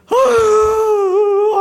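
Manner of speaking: high, long drawn-out crying wail; acted loud wail. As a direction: let out a loud sobbing cry. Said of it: "하면서 막 우시는 거예요". (목 놓아 우는 높고 긴 통곡)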